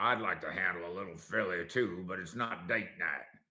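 put-on Texas cowboy accent. Talking about a man's stay in philly, in a texas cowboy actor accent. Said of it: "That's my Texas cowboy actor accent".

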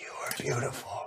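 soft whisper, barely audible. Repeating for the crowd what they whispered into dying Sophia's ear: retelling a whisper. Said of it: "whispered into her ear".

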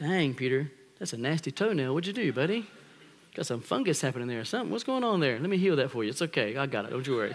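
light, joking delivery. Acting out a scene of Jesus washing Peter's feet: joking Jesus voice. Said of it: "Washing Peter's feet".

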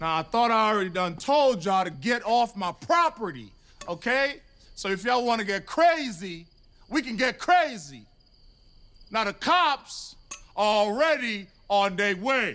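put-on confrontational voice. Ordering people off the property with a tone that is put on: put-on confrontational voice. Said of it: "it's almost like he's trying on a voice".

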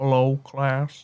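dead-level, unvarying, flat monotone teacher voice. Retelling a new Spanish teacher greeting the class, in Don Paco's monotone voice. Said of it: "he had this like very monotone voice".

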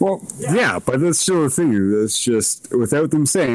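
ordinary talk

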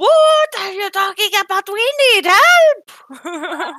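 furious scream, shrill and pitched very high. Voicing a character shaking her staff at the room, demanding help: angry screaming. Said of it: "screaming at the ceiling".

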